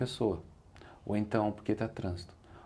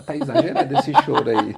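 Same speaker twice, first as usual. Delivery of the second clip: bursting into loud laughter mid-sentence; laughing; 4 semitones higher, 12 dB louder than usual. Retold or imitated. Speaker amused at a woman's exaggerated crying at his talk, laughing loudly. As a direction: laugh out the words, amused and a bit incredulous.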